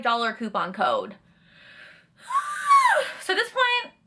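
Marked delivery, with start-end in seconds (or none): 2.3-3.1 a loud, high frustrated groan-shout; real exasperated outburst; enraged cry-sigh. Real, not acted. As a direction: let it out like you've had enough. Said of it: "I'm enraged".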